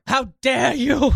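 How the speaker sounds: high, slow mock outrage; mock a teen activist's outrage, stretched; imitating Greta Thunberg. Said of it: "Greta Thunberg saying".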